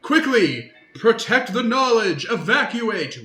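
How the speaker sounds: high, loud commanding bellow through halls; booming voice. Acted. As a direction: boom out the alarm to the monks. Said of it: "you hear a booming voice scream through the hallways".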